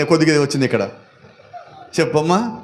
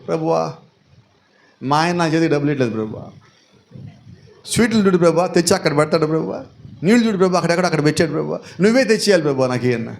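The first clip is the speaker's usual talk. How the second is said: mock whiny prayer; 3 semitones lower, faster than usual. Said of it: "మనం చాప మీద కూర్చున్నాం".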